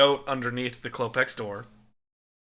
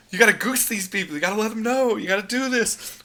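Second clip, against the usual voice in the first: hyped-up neighbor; 8 semitones higher than usual. Retold or imitated. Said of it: "he's like".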